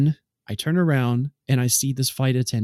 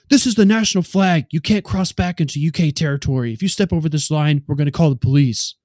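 imitating a yell; 3 semitones higher, 4 dB louder than usual. Official threatening to call police, raised mock yell. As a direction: play the angry official laying down the rule. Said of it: "He says".

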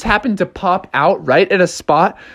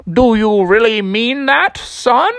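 lightly voiced old fish wizard; a hint of an old character voice; little old fish; 3 semitones higher than usual. Old fish questions the drowning bear, lightly put-on voice. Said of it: "a little old red fighting fish".

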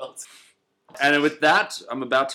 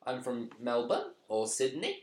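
slow, softer Sydney-Melbourne accent with inflected endings; tinny Australian city accent; 6 dB quieter, slower than usual. Shown as a demonstration. Showing how Sydney people talk, Australian inflection at the end. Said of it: "they have that inflection at the end".

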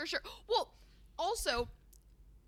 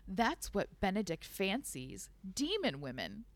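story narration; 3 semitones lower than usual. Acted. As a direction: read it like a novel. Reads book excerpt aloud.

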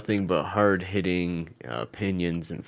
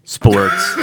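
show intro; 3 semitones higher, 8 dB louder, slower than usual. Shown as a demonstration. Trying out show intro line.

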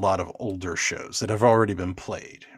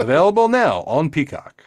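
louder, higher mock ad read; mock announcer plug; 5 semitones higher, 5 dB louder than usual. Host breaking in with a sponsor plug, mock announcer. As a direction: plug it like a streaming promo.

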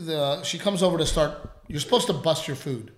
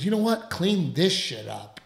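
angry retort; 3 semitones higher than usual. Retold or imitated. Customer throwing trash down.

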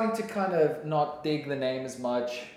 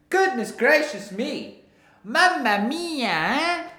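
hammed-up exclamations; 8 semitones higher, 5 dB louder, slower than usual. Silly catchphrase voices after mic check.

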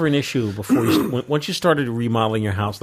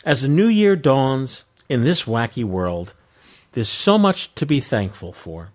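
slow radio DJ read; Casey Kasem voice; slower than usual. Acted. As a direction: read it like a long-distance dedication. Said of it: "I feel like Casey Kasem".

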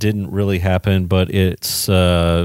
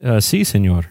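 mock Spanish. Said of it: "Can you speak Spanish?".

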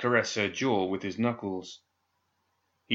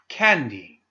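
sharp, louder call of her name; angry command; 3 semitones higher, 5 dB louder than usual. Acted. Pandora calls Candy to account, angry command. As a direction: snap her name like an order. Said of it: "she commanded angrily".

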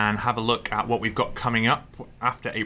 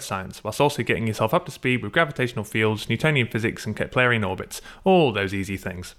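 ad read. Acted. Sponsor read by host.

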